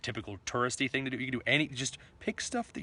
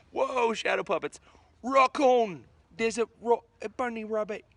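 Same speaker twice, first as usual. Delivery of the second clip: delighted surprise; 10 semitones higher, 6 dB louder than usual. Real, not acted. Playing with shadow puppets.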